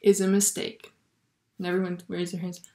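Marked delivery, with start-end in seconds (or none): 0.0-0.9 higher-pitched, badly faked French accent; terrible French accent. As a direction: repeat the French professor's maxim in a mock accent. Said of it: "That's my terrible French accent".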